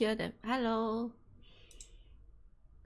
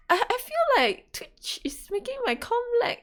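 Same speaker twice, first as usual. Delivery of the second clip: whisper; 6 dB louder than usual. Real, not acted. Whispered complaint about lag.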